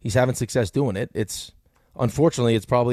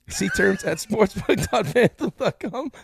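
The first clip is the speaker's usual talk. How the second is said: laughing; 9 semitones higher, much slower than usual. Real, not acted. Cracking up mid ad read.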